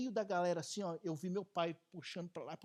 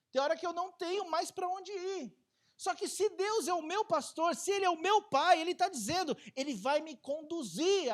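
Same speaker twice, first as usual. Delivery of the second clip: rising preaching; 10 semitones higher, 7 dB louder than usual. Acted. Preacher rising to full force.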